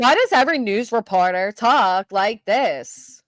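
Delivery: drawn-out, mock news anchor cadence; slow it down like a TV reporter. Streamer mocking how every news reporter talks, imitated reporter voice. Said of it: "like, reporter voice".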